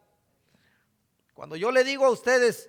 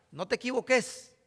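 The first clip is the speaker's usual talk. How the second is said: "no te equivoques" in a light Honduran catracho accent. Shown as a demonstration. Preacher translating scripture into Honduran speech, catracho accent. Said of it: "Así con acento, ¿verdad?".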